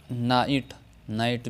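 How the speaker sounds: नाइट with long आई and silent gh; English word night. Shown as a demonstration. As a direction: say नाइट with no g sound. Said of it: "जीएच की आवाज़ खामोश". (नाइट, जीएच खामोश)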